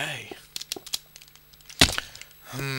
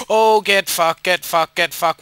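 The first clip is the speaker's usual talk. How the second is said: angry cursing; 5 semitones higher, 7 dB louder than usual. Real, not acted. Frustrated at game obstacle.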